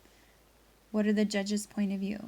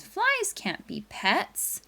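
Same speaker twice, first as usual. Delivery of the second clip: dad's firm voice; 5 semitones higher, 4 dB louder, slower than usual. Retold or imitated. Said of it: "he says".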